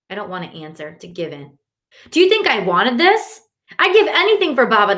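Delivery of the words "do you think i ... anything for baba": voice cracking. A narrator's reading. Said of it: "My brother's voice cracks".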